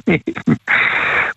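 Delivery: high breath of laughter. Real, not acted. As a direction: chuckle in agreement. Caller laughs agreeing with host.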